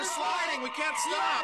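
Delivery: high, loud panicked yell; panicked shout. Acted. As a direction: scream it as the bus slides. Bus skidding toward the river.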